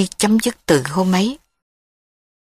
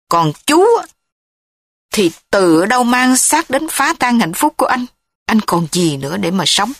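furious. Acted. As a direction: spit out the family grievances. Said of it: "Tấn giận dữ".

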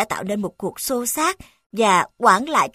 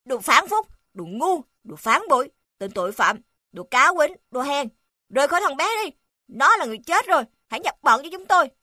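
angry yelling; 4 semitones higher, faster than usual. Acted. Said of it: "kêu to".

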